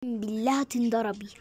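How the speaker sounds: hissed angry threat under the breath; whispered threat. Acted. (تهديد بالهمس)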